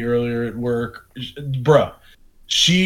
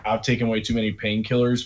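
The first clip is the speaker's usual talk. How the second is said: West Virginia drawl; 5 semitones lower, 6 dB quieter than usual. Retold or imitated. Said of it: "West Virginia white trash ... voice".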